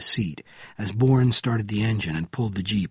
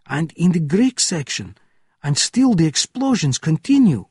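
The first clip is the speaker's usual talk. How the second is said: high, raised voice of an agitated officer; alarmed officer's shout; 6 semitones higher, 4 dB louder than usual. A narrator's reading. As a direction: shout out the disaster report in alarm. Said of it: "shouted an officer from the gatehouse window".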